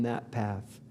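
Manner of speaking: slow, breathy whisper. Real, not acted. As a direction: drop to a hush to press the point home. Urging focus, drops to whisper.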